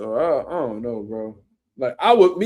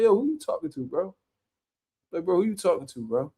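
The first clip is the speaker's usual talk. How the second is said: calm, level challenge; real calm; 5 dB quieter than usual. Retold or imitated. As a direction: ask it evenly, no heat, just firm. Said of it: "Like, real calm".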